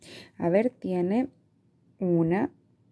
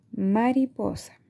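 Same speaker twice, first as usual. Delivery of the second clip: slow, syllables apart; slowly segmented. Shown as a demonstration. Teacher modelling a word for children, slow and syllabic. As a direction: spell out Mariposa by its beats. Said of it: "vamos a ir segmentando".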